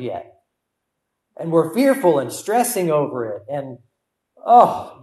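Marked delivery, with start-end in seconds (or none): 4.4-5.0 high, loud exasperated "oh"; frustrated outburst, hair-pulling stress. Acted. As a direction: burst out as if stressed to the limit. Acting out stressed, fearful fretting.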